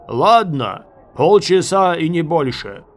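loud, firm reply; shouted concession. A narrator's reading. Enemy officer yielding to the besieged, shouting. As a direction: grant it at full voice.

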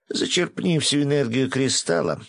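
restrained shout, starting high and falling. A narrator's reading. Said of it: "закричал хранитель". (сдержанный высокий крик)

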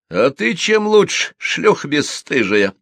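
high, loud, squeezed-out insult; spiteful. A narrator's reading. Widow turns on the gossip, spiteful. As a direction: force the insult out viciously. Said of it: "злобно выдавила Ленка".

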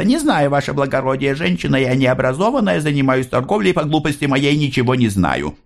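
high, sing-song humble voice; bow and drone the same answer; monotone peasant answer. A narrator's reading. Maria answering the officer, humble and monotone. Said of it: "однообразно отвечала".

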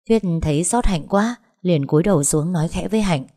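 usual speaking voice

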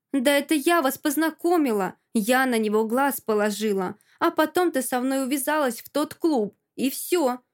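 mild spiteful outburst, pitch pushed up; jealous rant, spat out unevenly; spiteful hissing. Acted. Alka accusing her friend of stealing Zhora, mildly spiteful. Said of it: "шипит змеёй".

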